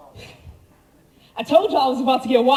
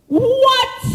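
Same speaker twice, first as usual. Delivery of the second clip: a milder, still raised "What?"; disbelieving echo; 8 semitones higher than usual. Real, not acted. Preacher repeats his disbelief to the congregation, a milder "What?".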